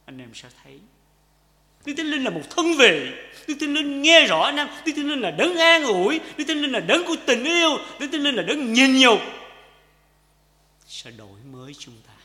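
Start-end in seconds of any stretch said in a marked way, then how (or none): 1.8-9.2 high, loud litany; full-force sermon voice; fervent preaching. Acted. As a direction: proclaim each line to the congregation.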